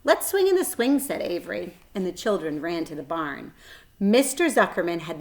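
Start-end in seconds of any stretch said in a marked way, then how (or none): 0.0-1.0 put-on much higher, eager little boy. A narrator's reading. Boy inviting his sister to swing, eager. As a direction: pitch it up like a keen kid. Avery voiced in story.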